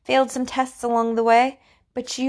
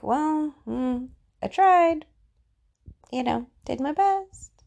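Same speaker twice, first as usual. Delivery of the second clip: higher, slow, mock resigned shrug; half-hearted excuse; 5 semitones higher, slower than usual. Speaker mimics someone quitting when it gets tough, half-hearted. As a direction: imitate a quitter making a mild excuse. Voicing someone who gives up trying.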